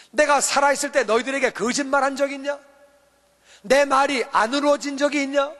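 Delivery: a reproachful teacher's questions to the disciples; scolding as Jesus. Retold or imitated. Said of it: "믿음이 없는 것을 야단치셨어요".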